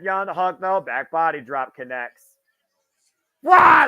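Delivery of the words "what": high, loud disbelieving shout; surprised. Real, not acted. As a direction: blurt out in shock. Shocked reaction to move.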